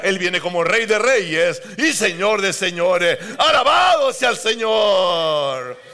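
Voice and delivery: ringing, slow "¡Alabado sea el Señor!"; preaching shout. Real, not acted. Preacher crying out praise to the congregation at the peak. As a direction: lift the church with a shout of praise.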